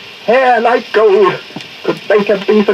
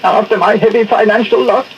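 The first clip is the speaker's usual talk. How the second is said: self-pitying whine; blubbering. Acted. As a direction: whimper about your losses. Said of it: "stop that blubbering".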